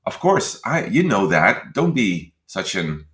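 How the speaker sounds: slow, scornful put-down; mock condescension, drawn out; imagined snide retort. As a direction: sneer it slowly at him. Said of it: "I didn't say that".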